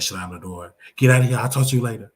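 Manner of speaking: loud mocking brush-off; hammed-up loud dismissal; mock slamming the door. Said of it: "And she said".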